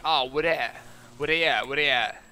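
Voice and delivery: punchy put-on customer asking around; imitated customer. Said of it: "this dude is talking like this".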